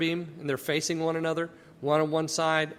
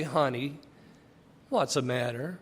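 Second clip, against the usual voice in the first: soft, lower, tender mother voice; tender mom; 5 semitones lower, 3 dB quieter than usual. Retold or imitated. Mom to her crying child, soft and tender. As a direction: comfort a hurt child gently. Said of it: "that's the difference".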